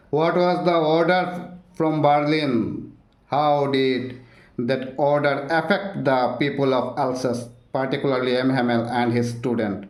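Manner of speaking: slow, deliberate reading of an exam question; careful exam-question dictation. Acted. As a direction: read it out word by word for students to note down.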